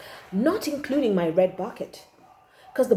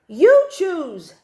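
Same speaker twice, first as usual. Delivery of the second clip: mum's breezy reply; 6 semitones higher, 8 dB louder than usual. A narrator's reading. Mum's reply voiced in story.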